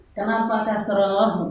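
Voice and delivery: lightly voiced student asking why; mock student question. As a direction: ask it like a puzzled pupil. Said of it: "paling enak itu".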